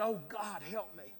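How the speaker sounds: soft, fading inner plea; silent inner prayer. Shown as a demonstration. Preacher showing a prayer cried only in the heart, softly. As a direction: pray it under your breath. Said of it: "I've cried in my heart".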